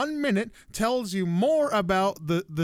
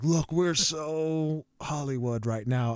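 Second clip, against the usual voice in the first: mock smug; 3 semitones lower, slower than usual. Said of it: "they're like".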